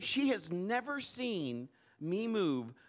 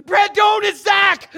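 much higher and far louder, a desperate yell; frantic shout; 11 semitones higher, 17 dB louder than usual. Retold or imitated. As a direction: stop him before he swings. Wife stops him from hitting.

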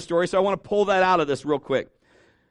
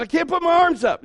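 high whining complaint; mock kid's wail, pitched high; distressed child; 11 semitones higher, 5 dB louder than usual. Imitates himself as injured child.

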